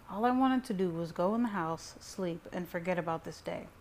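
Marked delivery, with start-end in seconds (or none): none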